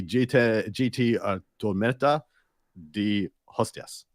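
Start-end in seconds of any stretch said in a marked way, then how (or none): 1.6-4.1 Tormenta de Hostias said slowly in a careful Spanish accent. Shown as a demonstration. Host announcing a Barcelona tournament name in a Spanish accent. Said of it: "I like the accent in there".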